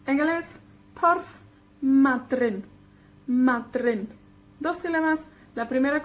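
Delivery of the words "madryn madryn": Madryn with MA hit firmly; MA-dryn, penultimate stressed; stress on first syllable. Shown as a demonstration. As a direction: lean on MA in Madryn, then fall. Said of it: "la penúltima con la énfasis".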